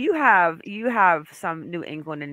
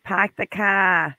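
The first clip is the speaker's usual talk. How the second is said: put-on slow, drawn-out New England accent; 4 dB louder, slower than usual. Host mimics mom's accent, hard New England. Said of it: "that New England accent is so hard".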